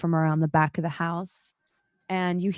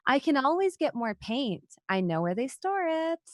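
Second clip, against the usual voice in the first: whimsical; 7 semitones higher than usual. A narrator's reading. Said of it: "laughs whimsically".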